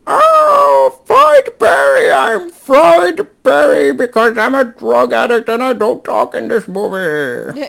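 put-on loud, high, slow South African accent. Podcast host doing a South African accent for his co-host. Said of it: "let me do my best South African accent".

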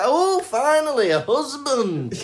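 high, bright gush of relief; giddy finally-a-husband thrill; a princess finally getting her wish; excited. Acted. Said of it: "she gets really excited".

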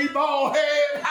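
slow jeering children's taunt, lightly voiced; mock taunt. Preacher imitating children mocking the bald prophet, slow and jeering. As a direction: mildly mimic kids mocking. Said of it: "I say".

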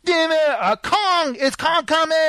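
high excited kid voice, imitating a child. Friend mimics the excited kid at Skull Island, high and eager. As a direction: squeal it like the little kid at the movie. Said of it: "Remember the little kid?".

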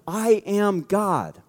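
very slow, measured claim; solemnly drawn-out statement; weighty declaration. Acted. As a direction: let each word land slowly. Voicing Jesus's big declaration.

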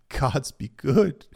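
overcome, drawing the words out; choked voice. A narrator's reading. Harwin recognizing Arya, in a choked voice. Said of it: "he said in a choked voice".

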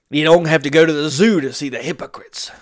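hushed aside, like a secret; whispered saying. Shown as a demonstration. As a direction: whisper the quote. Quoting own old saying.

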